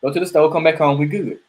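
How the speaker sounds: lightly voiced wife saying no thanks; emphatic wife. Man voicing his wife brushing off the offer, mock sweet. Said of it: "the woman emphatically says".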